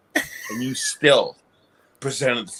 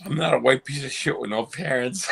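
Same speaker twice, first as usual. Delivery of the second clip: says it through a laugh; laughing while repeating himself. Real, not acted.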